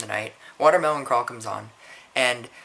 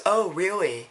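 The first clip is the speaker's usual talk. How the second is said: mildly snide, higher-pitched retort; bitchy girl; 4 semitones higher than usual. Retold or imitated. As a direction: imitate a bitchy girl, lightly. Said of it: "bitchy girl goes".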